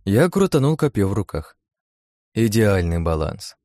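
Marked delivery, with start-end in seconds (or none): 2.3-3.6 slow, satisfied appraisal; pleased. Acted. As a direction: savour it, pleased with the work. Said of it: "будучи довольным своей работой".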